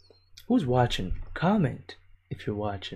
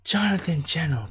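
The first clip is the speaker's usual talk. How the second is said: slow, loud, higher disbelief at a name; 5 semitones higher, 7 dB louder, slower than usual. Real, not acted. Reading a viewer's name out in loud disbelief.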